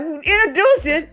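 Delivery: a single word thrown back high in disbelief; incredulous echo. Retold or imitated. Patient echoing the doctor's word, baffled and high. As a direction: repeat her word like it makes no sense. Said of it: "And I'm looking like".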